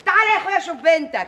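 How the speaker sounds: loud exasperated laugh. Acted. Mother complaining to husband, laughing.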